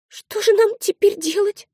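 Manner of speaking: put-on high, slow child's voice, at a loss; a small girl lost and frightened; high child voice, slow and scared; scared little girl. Scared little sister asks.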